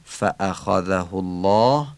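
فأخذه الله slowly, the hamza after fa firmly struck; stressed hamza. Shown as a demonstration. Teacher pointing out the hamza in فأخذه الله, stressed hamza. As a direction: hit the hamza inside فأخذه. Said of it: "نبر همزهٔ".

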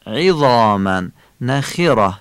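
عظاما نخره with Arabic i after ayn and kh; eloquent kasras. Shown as a demonstration. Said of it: "کسرهٔ عین و خ هم فصیح". (عظاما نخره با کسرهٔ فصیح عین و خ)

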